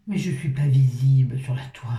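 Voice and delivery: light Marseille twang on the line; a hint of Pagnol's Provence; mild accent du Midi; southern French accent. Shown as a demonstration. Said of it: "l'accent du sud que je prends".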